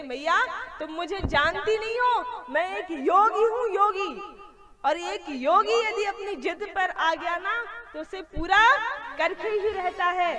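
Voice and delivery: mildly hammed-up stubborn Bholenath; insistent yogi. Shiva insists to Yashoda, voiced. (हठी योगी की ज़िद भरी आवाज़)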